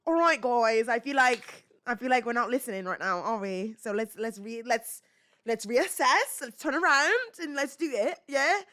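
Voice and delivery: playful nanny's British accent. Shown as a demonstration. Nanny regrouping kids who aren't listening, British accent. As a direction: coax them in a mock British accent, lifting at the end. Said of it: "I'll do it with a British accent".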